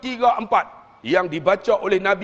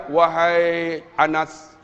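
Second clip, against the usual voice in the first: imitated questioner; 4 semitones lower, slower than usual. Acting questioner addressing Anas.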